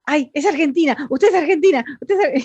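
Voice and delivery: mock excited stranger, high and loud, cut off. Locals recognizing an Argentine, mock excited high voice. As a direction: squeal it like someone discovering an Argentine. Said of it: "y te dice".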